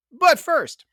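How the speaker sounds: unvoiced stage whisper. Host teasing the next segment in a whisper. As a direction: breathe it as a secret tease.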